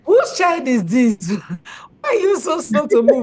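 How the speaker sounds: half-laughing exasperated shout of a mother; a hammed-up frustrated parent, laughing through it; mock exasperated yell. Mother's exasperation with slow child.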